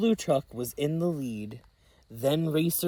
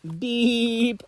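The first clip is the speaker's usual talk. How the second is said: truck beep; 9 semitones higher, 4 dB louder than usual. Acted. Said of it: "said Blue".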